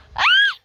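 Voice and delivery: piercing high scream; sudden frightened shriek. Acted. Screams at what she sees.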